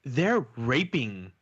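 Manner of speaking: slow, mock horrified girl voice; imitating daughter. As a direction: draw it out like a shocked kid. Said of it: "She's like".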